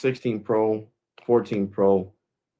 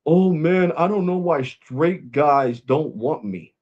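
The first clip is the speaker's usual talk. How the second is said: mock whine; 4 semitones higher, slower than usual. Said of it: "he was like".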